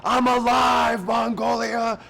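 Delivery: slow, high, loud yell of joy; triumphant shout. Retold or imitated. Contestant Larry shouting his joy at Mongolia. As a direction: shout it to the whole valley. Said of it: "it's external too".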